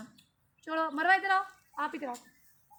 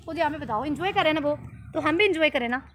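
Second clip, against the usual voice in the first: loud rallying; 6 dB louder than usual. Real, not acted. Rallying crying kids loudly.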